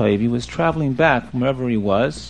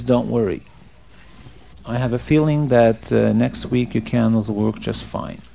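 lower, gently measured rabbi; calm reassurance; 5 semitones lower, 4 dB quieter than usual. Acted. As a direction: reassure softly and unhurriedly. Rabbi reassures the crying man.

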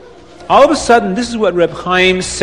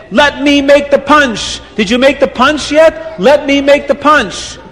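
eager plea; 5 semitones higher than usual. Acted. Reb Chaim eagerly asking cooks.

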